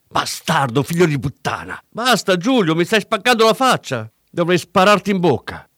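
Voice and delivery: high, loud pained yelling; shouting. A narrator's reading. Dealer yells while the cop beats him. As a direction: cry out under the blows.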